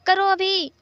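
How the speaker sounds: loud, high-pitched shouted order; sudden sharp outburst; shouting. A narrator's reading. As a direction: yell the command to startle them. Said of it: "वेनिंग ने चिल्लाते हुए कहा".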